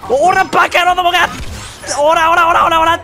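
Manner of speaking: taunting shout. Real, not acted. Taunting enemies while fighting.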